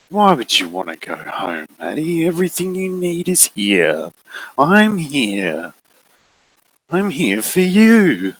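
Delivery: slow, honeyed possessive voice; sinister coaxing. Acted. Figure insisting Maddie stays, slow and honeyed. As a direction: smother her with false care.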